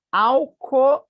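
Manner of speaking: "Alcoólatra" loud and high, punched on CÓ; stress on antepenultimate syllable. Shown as a demonstration. Teacher showing a proparoxytone to students, antepenultimate syllable punched. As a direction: hit the "ó" in "Alcoólatra". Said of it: "antepenúltima".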